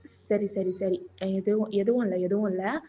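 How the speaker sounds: low, soft hushing reassurance; calm a crying junior gently; low consoling voice; soothing. Acted.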